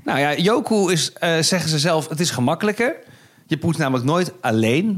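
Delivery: light promotional read. Acted. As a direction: sell it like a podcast ad. Reads sponsor ad copy.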